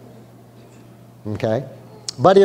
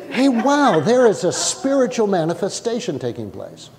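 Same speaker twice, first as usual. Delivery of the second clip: mock calm curiosity; 3 semitones higher than usual. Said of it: "They didn't say, as those who are aware".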